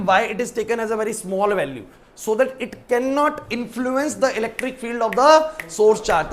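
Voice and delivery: very slow, word by word for notes; slow dictation. Shown as a demonstration. Teacher dictating a note to students, slow and even. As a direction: spell it out slowly so students can copy. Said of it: "मैं लिख भी देता हूँ".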